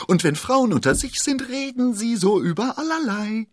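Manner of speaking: high, loud, fussy landlord; high-pitched, worked-up explanation; impatient exclamation. A narrator's reading. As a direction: keep calling it out in exasperation. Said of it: "rief Bonacieux ungeduldig".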